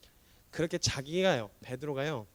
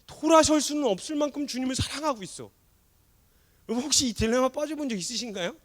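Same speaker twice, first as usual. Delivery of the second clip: loud, high, fervent sermon climax; impassioned preacher's cry; full-force preaching; 13 semitones higher, 13 dB louder than usual. Acted. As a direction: drive it home to the congregation.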